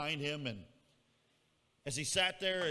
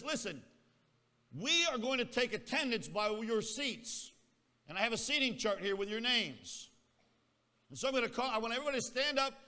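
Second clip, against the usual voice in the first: loud, higher classroom announcement; teacher addressing class; 6 semitones higher, 6 dB louder than usual. Retold or imitated. Teacher tells new class about assigned seats, loud instructing voice. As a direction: project orders to a whole room as a teacher. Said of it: "the teacher gets up and says".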